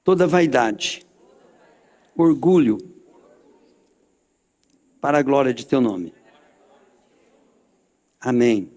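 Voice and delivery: low-pitched prayer with long pauses; solemn led prayer. Acted. Leads closing prayer phrase by phrase.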